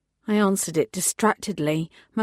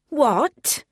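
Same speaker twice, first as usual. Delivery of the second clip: loud, higher sharp bark; 7 semitones higher, 4 dB louder than usual. Acted. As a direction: bark it in disbelief. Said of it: "she barked".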